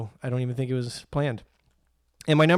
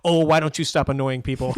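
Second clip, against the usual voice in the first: imitating George Bailey; 5 dB louder than usual. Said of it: "gets right in his face and goes".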